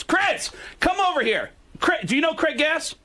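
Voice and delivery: high, insistent calling-over impression; Richard Belzer. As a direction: summon a friend across the dinner table. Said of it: "he says".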